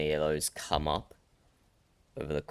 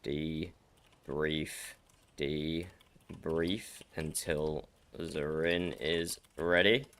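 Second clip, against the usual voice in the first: slow careful practice; 4 dB quieter, much slower than usual. Real, not acted. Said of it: "most messed up sentence I've ever said".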